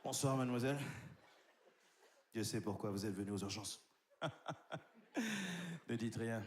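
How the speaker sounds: deep, hushed, suggestive doctor; low sleazy doctor. Acted. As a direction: murmur it like a creepy seducer. Doctor seduces patient.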